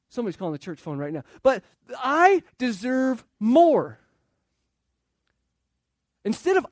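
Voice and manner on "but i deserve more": loud, higher whine, drawn slow at the end; petulant brother wanting more; whiny older son. Retold or imitated. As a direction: stretch out the complaint. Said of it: "Say that with a whiny voice".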